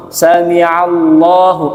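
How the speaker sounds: sami Allahu with the final hu said clearly and slowly; full ending. Shown as a demonstration. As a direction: finish on hu, don't cut it off. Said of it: "bukan sami Allah".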